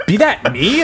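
gruff high pirate growl. Retold or imitated. Comic podcast retelling, skeleton talking in pirate voice. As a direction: ham it up like an old sea dog.

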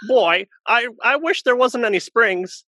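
high-pitched wishing character voice; grumbling character. Retold or imitated. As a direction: act out the fed-up man's wish. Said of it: "And he goes".

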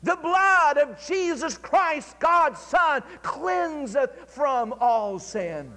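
ringing shouted proclamation; cried out. Retold or imitated. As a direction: call it out like a revival preacher proclaiming. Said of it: "and then he cried out".

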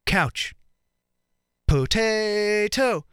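slow, drawn-out, weighty pauses between words; pretentious mime declaiming. Retold or imitated. Mime on stage to a hushed crowd, solemn and slow. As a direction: deliver each word like profound art. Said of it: "And he opens his mouth".

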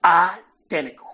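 slow, drawn-out southern Identical; mock southern drawl on Identical; quoting My Cousin Vinny. Friend imitating a movie line in southern accent. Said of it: "let me quote, uh, my cousin Vinny".

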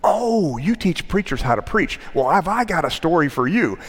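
high, delighted Tennessee storyteller; folksy Tennessee voice, swooping high; Tennessee accent. Retold or imitated. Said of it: "in this really fine Tennessee accent".

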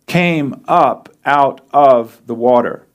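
"came up out of the water" slow, word by word; weight each word of "came up out of the water" with small gaps; emphatic reading. Real, not acted. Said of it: "but catch this part".

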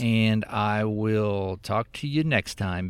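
slow, drawn-out goodbye; slow deliberate sign-off. Real, not acted. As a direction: stretch out the sign-off slowly. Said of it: "I'm gonna finish it off".

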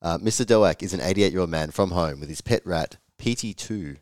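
hoarse from a cold; croaky voice. Real, not acted. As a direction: talk through a croaky throat. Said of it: "Sorry about my croaky voice".

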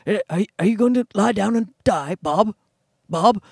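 lightly voiced Hopkins nagging Bob; a hint of Hopkins prodding Bob; Anthony Hopkins impression. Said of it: "He says Bob".

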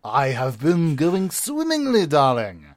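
stagey, savoring each word; breathy vintage purr. Acted. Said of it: "when the voice starts happening".

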